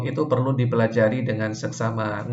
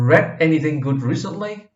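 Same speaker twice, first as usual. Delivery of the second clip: "Read anything good recently" lifted in pitch as a question; rising question intonation; 4 semitones higher than usual. Shown as a demonstration. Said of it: "Question itu nadanya selalu naik". (nada naik di "Read anything good recently")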